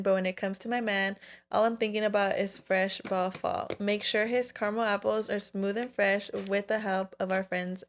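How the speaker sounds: steady, even sponsor read. Acted. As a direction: read the ad smoothly to listeners. Reads sponsor ad.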